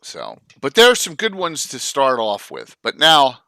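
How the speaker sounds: talking around ice in mouth; words muffled by mouthful of ice. Real, not acted. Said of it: "Sorry, I got ice in my mouth".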